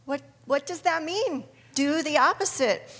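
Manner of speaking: baffled. Retold or imitated. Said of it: "And I'm like".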